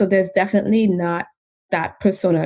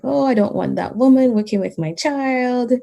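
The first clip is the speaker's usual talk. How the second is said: retold angry parent; 6 semitones higher than usual. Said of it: "they became loud".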